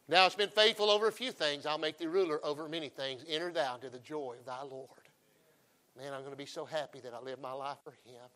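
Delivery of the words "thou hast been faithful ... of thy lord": booming then settling, a touch of grandeur; lightly voiced Lord praising his servant. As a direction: announce it like a proud king. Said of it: "and I hear him say".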